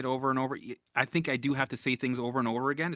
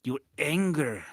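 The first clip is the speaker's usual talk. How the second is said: imitating mom; 4 dB louder, slower than usual. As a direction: nag him like his mother, slowly. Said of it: "She's like".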